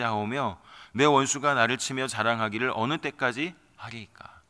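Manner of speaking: solemn, measured reading of a psalm; scripture reading. Acted. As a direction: read the lament as holy text. Reads Psalm 13 aloud.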